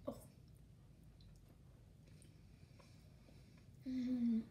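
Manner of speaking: eating candy mid-sentence; chewing while talking. Real, not acted. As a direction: mouth full of chocolate. Seen 0: Bites egg just before; jaw and lips chewing, egg held at mouth.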